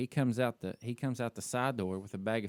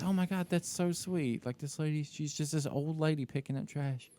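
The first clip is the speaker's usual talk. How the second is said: touched cooing; 5 dB quieter than usual. Retold or imitated. Retelling Katie's reaction to the old lady, softly touched. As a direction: imitate someone gently moved by a sweet sight.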